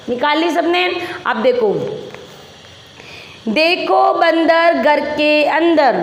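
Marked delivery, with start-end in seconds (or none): 3.5-6.0 slow, word-by-word reading; model reading aloud. Shown as a demonstration. Teacher leading pupils in reading from the book, slow and measured. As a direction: read it out slowly for children to repeat. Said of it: "पहले आप मेरे साथ किताब का वाचन करोगे".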